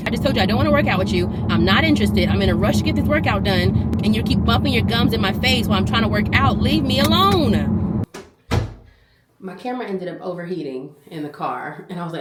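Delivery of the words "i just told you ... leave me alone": loud irritated telling-off; loud exasperated scolding; fed-up rant. Real, not acted. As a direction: scold him loudly. Venting at the man.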